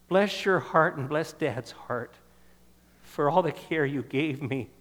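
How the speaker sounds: slow, choking up with emotion; real tears catching the words, slow; choked up. Real, not acted. Thanking his mother in the congregation, choked up and slow. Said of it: "I didn't mean to choke up".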